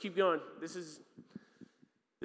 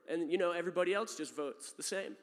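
pushy visitor; 5 semitones higher, 4 dB louder than usual. Retold or imitated. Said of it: "He's like".

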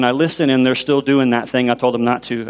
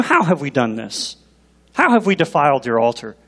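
mocking. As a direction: feign innocence with a touch of mockery. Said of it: "almost in a mocking manner".

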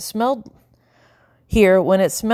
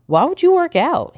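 puzzled; 11 semitones higher than usual. A narrator's reading. Blue puzzled by Howard.

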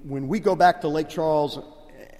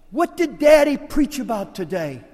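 quizzing dad; 8 semitones higher, 9 dB louder than usual. Retold or imitated. Father quizzing kids.

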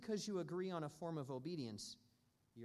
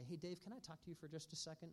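gentle; 2 semitones higher, 3 dB quieter, faster than usual. Retold or imitated. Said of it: "she'll just gently say".

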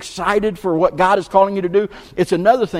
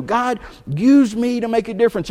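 louder, higher, firm declaration to God; bold prayer; 5 semitones higher, 3 dB louder than usual. Retold or imitated. Preacher repeats Nehemiah's prayer, louder and higher. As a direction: proclaim it with conviction. He didn't know what he was supposed to do.

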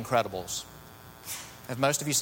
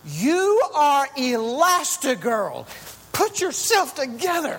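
much higher, louder and slow, commanding; Edna Mode; 10 semitones higher, 5 dB louder, slower than usual. Retold or imitated. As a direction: bark it like a fierce tiny designer. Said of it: "and she says".

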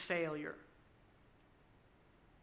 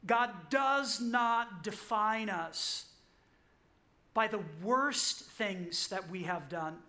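slow, soft and weighty; slower than usual. Real, not acted. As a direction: let "does not" sink in slowly. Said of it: "Just let that fall into your soul for a moment".

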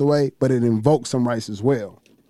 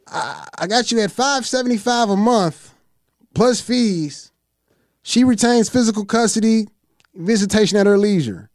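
mediator's offer; 6 semitones higher than usual. Retold or imitated. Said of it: "He said".

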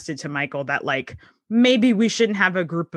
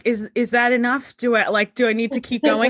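amused annoyance; 3 semitones higher than usual. Retold or imitated. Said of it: "when he's just like".

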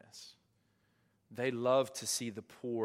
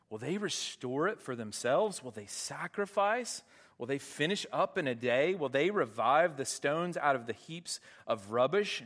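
mocking; 2 semitones higher than usual. Preacher reading Sanballat jeering at the Jews, mocking. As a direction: jeer at the feeble Jews. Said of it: "you can hear the mocking voice of the enemy".

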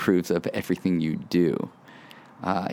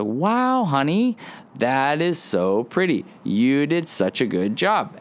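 much higher, sugary-sweet parent praise; gushing praise; 4 semitones higher than usual. Retold or imitated. Parent gushing to a child over a drawing, mock excited praise. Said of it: "all they want you to do is go".

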